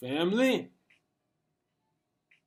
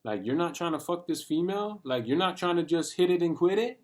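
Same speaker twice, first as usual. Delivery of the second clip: mocking friends; 5 semitones higher than usual. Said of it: "everyone else would look at me like".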